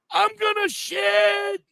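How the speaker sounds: high, loud, slow panicked shriek of a desperate friend; Curly Kel panicking. Retold or imitated. Friend shrieking at Hippie by the tent, high panicked squeal. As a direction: squeal it like you're about to soil yourself. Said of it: "And I'm like".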